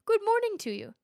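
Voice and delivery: high, loud friendly call. Acted. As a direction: call out a cheery greeting. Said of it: "he cried out".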